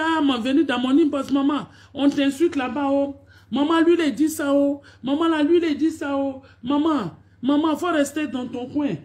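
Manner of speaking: whiny high-pitched mimicry of fans; mock fans whining. Mocking fans calling her maman.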